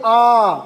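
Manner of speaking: slow, clear आ as a long open vowel; teacher sounding out आ, drawn a little slow; vowel aa demo. Shown as a demonstration. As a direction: sound out आ for the class. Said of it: "ये भी आपके मुंह से ध्वनि निकल रही है".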